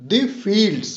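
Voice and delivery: quick "the", drawn-out "fields"; stress on FIELDS. Shown as a demonstration. Teacher demonstrating an iamb, stress on "fields". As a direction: skip fast over "the", stretch and stress "fields". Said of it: "बहुत जल्दी से पढ़ लिया गया".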